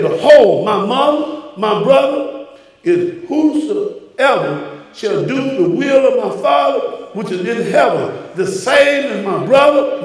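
slow, intoned scripture with rising emphasis; intoned Bible reading in the pulpit; scripture preaching. Acted. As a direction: proclaim the verse, drawing it out.

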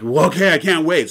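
mock eager viewer. Audience reaction voiced.

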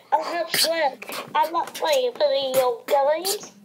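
rapping in a goofy nerd voice. Pretend. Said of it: "I gotta make my nerd voice".

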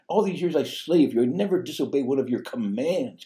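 loud, high resentful complaint; angry son. Retold or imitated. Resentful son complaining to his father, loud and bitter. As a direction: throw it back at the father. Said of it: "is very sullen. He's angry".

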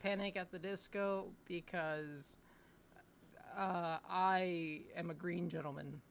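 slow, drawn-out smooth flirt; hammed-up bar pickup; cheesy pickup line.

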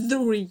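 "three" said loud and sharp, TH and R joined; careful TH plus R. Shown as a demonstration. Teacher repeating the hardest word for learners. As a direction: hit "three" hard, the hardest sound. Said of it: "ยากสุดละ".

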